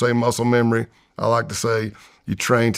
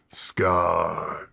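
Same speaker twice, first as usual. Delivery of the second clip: whispered name, far off; 4 semitones lower, 6 dB quieter than usual. Retold or imitated. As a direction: breathe the name like a distant echo. Underwater muffled recall.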